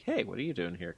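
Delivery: just a casual hello to someone you know; friendly. Retold or imitated. Allie greeting an old Canadian acquaintance, friendly and relaxed. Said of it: "She'd probably just, like, be like".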